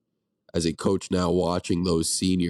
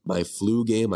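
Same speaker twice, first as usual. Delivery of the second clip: blocked nose from the flu; stuffy nose. Real, not acted. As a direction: talk through a stuffed-up nose. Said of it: "I apologize for my nasally voice and my sniffles".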